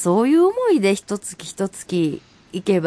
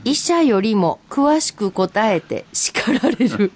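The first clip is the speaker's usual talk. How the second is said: rereading the haiku through light laughter; laughing reread. Shown as a demonstration. Host rereads the funny haiku to cohost, laughing. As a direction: let a chuckle run through the line.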